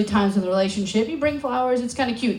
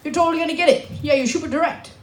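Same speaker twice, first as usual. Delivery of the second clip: higher-pitched imitation of Dutch friends; Dutch accent; 4 semitones higher than usual. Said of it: "I told my Dutch friends".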